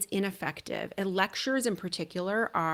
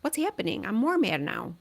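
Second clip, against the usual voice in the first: imitating upset kid; 3 semitones higher than usual. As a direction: play the kid, confused and getting madder. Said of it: "they're gonna be like".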